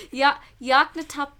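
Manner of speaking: Yaknatop- stumbled slowly and loudly through laughter; sounding out words. Real, not acted. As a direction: trip over Ya-, Yaknatop- slowly. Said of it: "I choked under the pressure".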